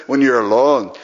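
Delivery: mimicked Scottish accent; Alistair. Showing the crowd how he does it, Scottish accent. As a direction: put on a Scottish preacher's accent. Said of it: "when he does it".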